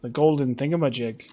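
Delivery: hammed-up Celtic brogue with a sneer; Brynjolf's brogue. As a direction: ham up a jovial Celtic rogue. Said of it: "That's what he sounds like".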